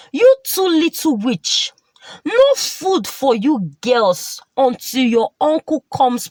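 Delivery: put-on a touch of anger as she sends the girls off; mildly angry. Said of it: "she said angrily".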